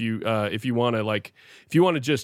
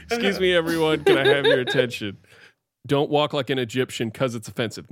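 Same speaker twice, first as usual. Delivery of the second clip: prim hall monitor. Acted. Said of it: "in the hall monitor voice".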